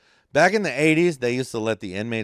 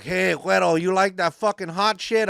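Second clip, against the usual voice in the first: 1 teasing; 9 semitones higher, 6 dB louder than usual. Retold or imitated. Inmates tease him, retold.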